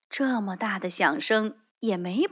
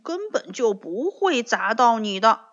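stubborn mumble; 4 dB louder than usual. Acted. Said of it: "嘴硬地咕哝了一句".

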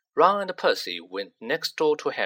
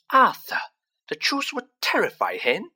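much higher, shrill plea; high, shrill worried wife; 10 semitones higher, 4 dB louder than usual. Acted. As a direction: cry out to her husband shrilly. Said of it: "said Missus Weasley shrilly".

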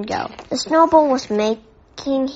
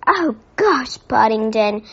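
groaning; 3 dB louder than usual. Acted. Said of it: "groaned Judy".

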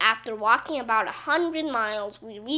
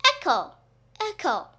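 higher calls fading with each repeat; echo; 5 semitones higher than usual. A narrator's reading. Gym repeats Michael's yell, fading echo. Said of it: "yelled the gym".

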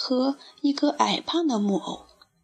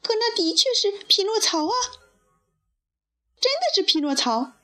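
high-pitched puppet calling out in astonishment; storybook shout, pitched up rather than loud; mock loud cry; 11 semitones higher than usual. A narrator's reading. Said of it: "用异常大的嗓门喊道".

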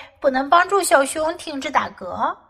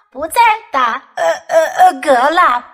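hiccuping; 5 semitones higher, 6 dB louder than usual. Acted. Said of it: "他又打嗝了".

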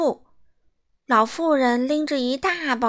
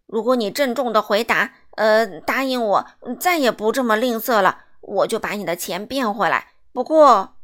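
wizard scolding; 6 dB louder than usual. Acted. Wizard lecturing the miser.

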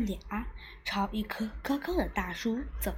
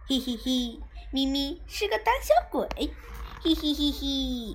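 嘲笑; 3 semitones higher than usual. Acted. 布鲁斯嘲笑咪咪.

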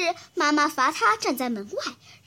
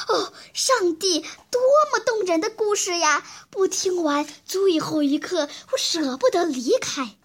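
breathless, louder exclamation; out of breath; 4 semitones higher, 3 dB louder than usual. Acted. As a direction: gasp it out after running. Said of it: "上气不接下气地叫道".

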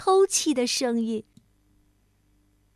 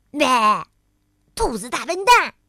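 put-on childish taunt; 7 dB louder than usual. A narrator's reading. Tiaotiao makes a face at friend, taunting. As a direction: tease like a bratty kid.

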